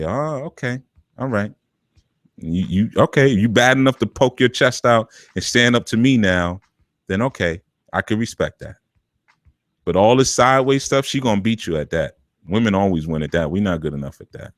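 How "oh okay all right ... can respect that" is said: conceding mother. Retold or imitated. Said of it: "She'll say".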